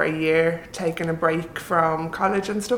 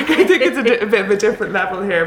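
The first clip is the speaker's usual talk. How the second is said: laughing; 4 dB louder, much faster than usual. Real, not acted. Laughing at moving to Malta.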